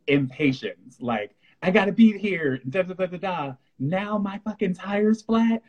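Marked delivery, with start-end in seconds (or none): 1.6-5.6 mock frustrated rant. To listeners, a stressed driver hamming up her annoyance. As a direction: play the annoyed driver muttering over the flat. Stuck with a flat tire.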